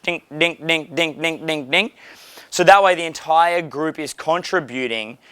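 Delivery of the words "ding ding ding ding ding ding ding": tennis ball dings. Shown as a demonstration. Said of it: "like a three or four dimensional tennis match".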